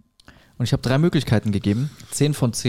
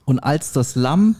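solemn reading breaking into giggles; 2 semitones higher, slower than usual. Real, not acted. Solemn Bible quote, cracking up.

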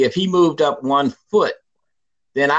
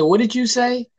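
disbelieving challenge; 9 semitones higher than usual. Retold or imitated. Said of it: "I said".

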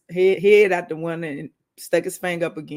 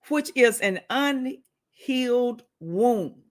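whispered; 5 semitones higher, much slower than usual. Acted. Defining scab, whispered aside.

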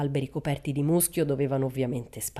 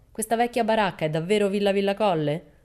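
calling out; 5 semitones higher, 4 dB louder than usual. Acted. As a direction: hail the children from the car. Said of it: "gridò".

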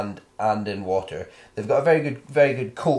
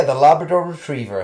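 playful; 4 semitones higher, 8 dB louder than usual. Pretend. Playful callback to the Scouse reading.

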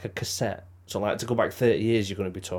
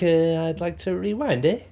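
put-on Canadian accent; 8 semitones higher than usual. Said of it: "Bit of Canadian".

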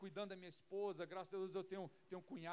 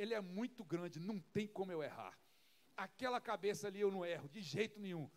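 calm confidence; 2 semitones lower than usual. Retold or imitated. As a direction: shrug off the giant's size, certain of the hit. David calm and sure of himself. (confiança tranquila, sem medo)

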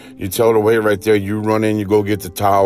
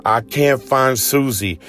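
panicked mother; 4 semitones higher than usual. Acted. Mother panicking over lost child.

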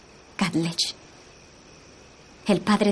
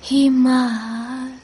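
slow, hushed trance voice; seance medium. Acted. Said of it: "intentaré alcanzar un estado de trance".

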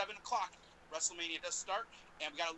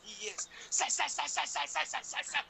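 ringmaster; 4 semitones higher than usual. Pretend. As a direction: ring announcer introduction. Hyping second guest introduction.

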